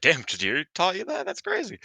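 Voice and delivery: high, loud amazed exclamation; excited quote. Retold or imitated. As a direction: blurt it out in disbelief. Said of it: "and I was like".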